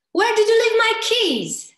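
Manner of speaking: high pitch. Shown as a demonstration. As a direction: throw the question up high and urgent. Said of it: "you can do it just with pitch".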